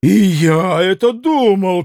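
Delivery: contained shout; mild cry. Acted. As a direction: call it out emphatically. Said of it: "крикнул Митя".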